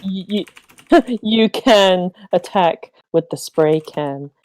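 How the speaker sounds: repeating the line through laughter; laughing through it. Real, not acted. Friend laughs while repeating the pun back. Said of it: "you do not see the pun".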